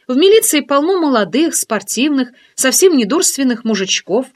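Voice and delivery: teasing curiosity, lifted voice; friend's voice. Acted. Oksana's long teasing rant.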